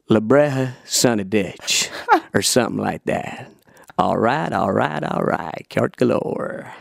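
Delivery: lazy Texan drawl, lightly done; Matthew McConaughey impression. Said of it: "Matthew McConaughey".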